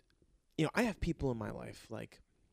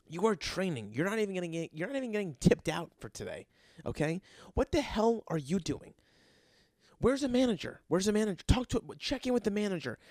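angry rant; 3 semitones higher, faster than usual. Acted. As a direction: tear into the new guy like a fed-up bartender. Ranting at the new guy.

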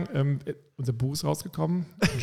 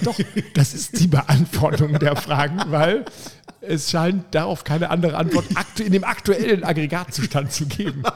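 laughing; 2 semitones higher, slower than usual. Retold or imitated. Laughing while quoting own reply.

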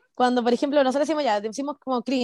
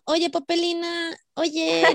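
put-on baby talk; 5 semitones higher, much slower than usual. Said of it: "después era como".

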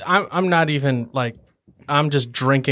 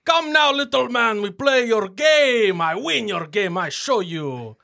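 high, swaggering ice dwarf challenge; boisterous dwarf boast; 8 semitones higher than usual. Acted. Dwarf challenging the halfling at the table, boastful and high. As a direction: slam the drink down and crow at the little man. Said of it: "slam it down on the table really loud and say".

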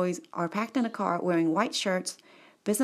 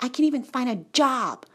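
high, louder mock Nigerian complaint; imitated Nigerian accent; 6 semitones higher, 5 dB louder than usual. Nigerian PhD cannot find a job, imitated accent. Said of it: "He's a Nigerian guy".

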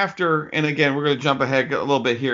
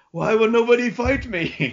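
whiny villain; 8 semitones higher than usual. Retold or imitated. Whining villain impression.

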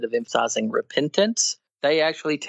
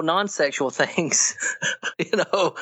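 higher voice breaking into chuckles; amused disbelief; 5 semitones higher than usual. Real, not acted. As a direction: laugh through the words, incredulous. Laughs at the opponents' contradiction.

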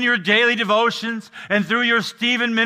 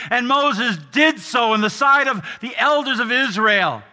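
preaching; 3 semitones higher than usual. Acted. Preaching with rising force.

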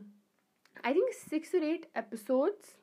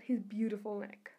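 half-hearted British accent; attempted British accent; 3 semitones lower, 5 dB quieter than usual. Shown as a demonstration. Vlogger quoting Fleabag in a failed British accent. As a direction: try a British accent, not quite managing it. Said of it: "I can't do a British accent".

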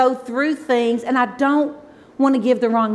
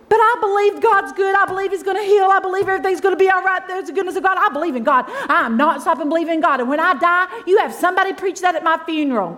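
fervent declaration; 6 semitones higher, faster than usual. Retold or imitated. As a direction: proclaim it like a testimony through tears. Her tearful declaration to her family.

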